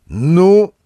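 high, loud impatient "Ну?"; a sharp, loud urging grunt of a word; menacing prod. Acted. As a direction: hurry them off with one word. Gardener hurries them away.

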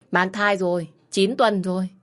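steady storytelling read for listeners; story narration. A narrator's reading. Host reading a listener's story, calm storytelling. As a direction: narrate the family drama evenly.

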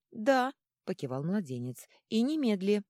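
high, loud squeaky yes; infant god. A narrator's reading. Infant god confirming to the leader, high and firm. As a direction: say it high and emphatic.

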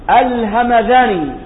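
الهمذاني with a voiced dhal, not a d; الهمذاني drawn out, its ذ kept a fricative; dotted dhal. Shown as a demonstration. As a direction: say الهمذاني slowly, with dhal in place of dal. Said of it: "بالذال المعجمة".

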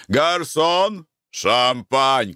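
high-pitched call to a waiter. A narrator's reading. Diner suddenly calls the waiter for champagne, calling out. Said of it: "крикнул он вдруг слуге".

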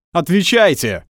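loud barked command; barked order. A narrator's reading. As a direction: snap it like an angry officer. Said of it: "рявкнул офицер". (громко рявкнуть приказ)

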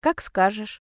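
calm, resigned compliance. A narrator's reading. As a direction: answer evenly. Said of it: "говорю спокойно".

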